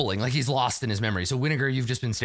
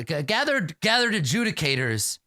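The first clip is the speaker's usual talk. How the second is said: stammering, higher and unsure; nervous stammer; 5 semitones higher than usual. Acted. Nervous inventor addressing the shadowy adjudicators, stammering. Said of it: "clears his throat".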